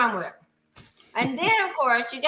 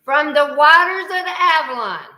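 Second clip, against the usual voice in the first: solemn recital; 5 dB louder than usual. Shown as a demonstration. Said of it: "I'm gonna say it, and you're gonna repeat after me".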